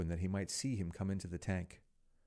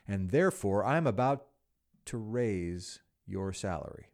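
surprising turn; 4 dB louder than usual. Acted. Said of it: "he continued".

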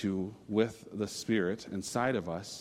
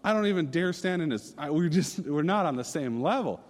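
amazed inner voice; 7 semitones higher, 4 dB louder than usual. Retold or imitated. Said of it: "I'm going".

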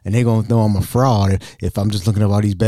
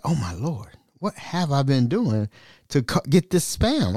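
mock nervous; 3 semitones higher, 4 dB quieter than usual. Reading a scam email, he frets nervously. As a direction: fret in a small worried voice. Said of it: "I was a little nervous".

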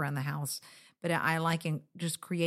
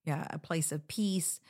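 whispering; 4 dB quieter than usual. Real, not acted. Whispered, unvoiced.

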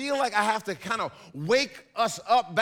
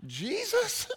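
loud, higher, slower shouted explanation; hammed-up shout; 12 semitones higher, 4 dB louder, slower than usual. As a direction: yell it as the perfect excuse. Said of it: "you say".

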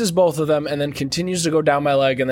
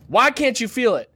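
higher, pushy mock questioning; a raised, whiny airport officer; mock agent pitch; 9 semitones higher than usual. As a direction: ham up the nagging officer. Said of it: "asking me questions".

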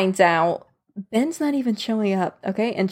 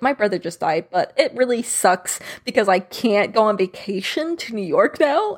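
mocking Ben. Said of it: "I hate this because he's all like".

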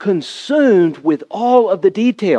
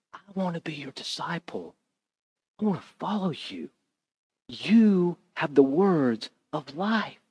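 devoted disciple; 11 dB quieter than usual. Acted. Mary voiced as devoted disciple.

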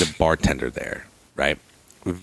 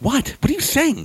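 much higher, worried disbelief; what on earth is going on; alarmed son. Retold or imitated. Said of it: "I was like".

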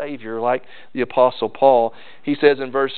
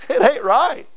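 emphatic preacher retort; 10 semitones higher than usual. Real, not acted.

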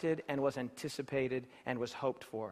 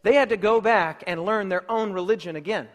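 louder restatement, punching "had"; emphatic repeat; 5 dB louder than usual. Shown as a demonstration. Preacher repeating his point to the congregation, loud and emphatic. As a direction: repeat it with force so it sticks. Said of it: "I want to say that again".

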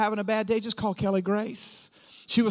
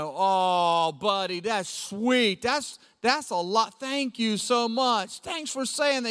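touched dad; slower than usual. Retold or imitated. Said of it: "I'm like".

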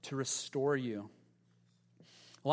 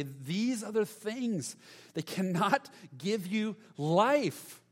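God's pleading voice; 2 semitones higher than usual. Acted. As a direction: draw them back gently, like God calling. God pleading, slow and far.

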